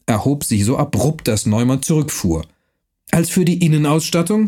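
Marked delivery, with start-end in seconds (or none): 3.1-4.5 higher, angry, throwing the question back; snapping the words back in anger. Acted. Count to Neumann, angrily finishing his sentence for him. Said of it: "fragte Ingelheim zornig".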